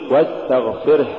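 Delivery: واستغفره with the last h breathed out; released h closing واستغفره; audible final ha. Shown as a demonstration. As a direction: let the h flow at the end of واستغفره. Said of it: "قل".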